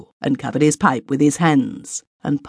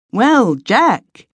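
higher, louder hearty greeting; exclaiming; 9 semitones higher, 4 dB louder than usual. A narrator's reading. Brothers exclaiming in greeting to Jack. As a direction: hail a friend coming in. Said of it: "exclaimed Malcolm and Joe".

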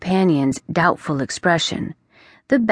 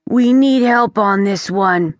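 solemn; 3 semitones higher, 4 dB louder than usual. Acted. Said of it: "he sounded far more solemn than usual".

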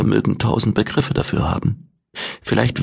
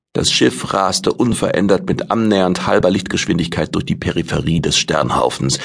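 ordinary delivery

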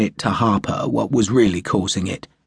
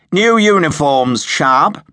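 much higher, louder eager officer voice; enthusiastic yapping; 6 semitones higher, 6 dB louder than usual. A narrator's reading. Slingsby pesters Sharp about uniforms, in an eager yapping voice. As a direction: yap it like an overkeen young lieutenant. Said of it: "he had yapped enthusiastically".

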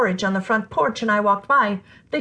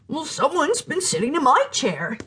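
Mama Bear; 5 semitones higher than usual. Acted. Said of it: "said the Mama Bear".

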